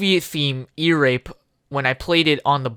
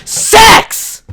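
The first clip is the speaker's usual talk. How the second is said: much higher loud squeal; 10 dB louder than usual. Acted. Goofing, high loud squeal. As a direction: shriek it.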